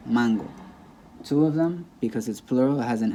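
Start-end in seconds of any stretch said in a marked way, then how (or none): 0.1-0.5 "mango" said as MAN-go, falling on the last syllable; stress on MAN. Shown as a demonstration. Teacher models the singular word, stress on MAN in "mango". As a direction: put the weight on MAN in "mango". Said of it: "stress goes on the second to last".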